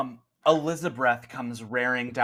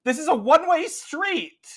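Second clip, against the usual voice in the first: high, loud, indignant yelling; outraged shout; 8 dB louder than usual. Acted. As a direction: scold the wrong-way driver. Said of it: "the woman ... is like".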